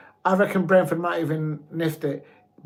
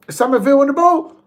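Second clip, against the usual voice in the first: suddenly loud and higher, calling the play; excited commentary; 9 semitones higher, 8 dB louder, faster than usual. Real, not acted. Watching the match live, he calls it out excitedly. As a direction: jump in as the winger breaks clear.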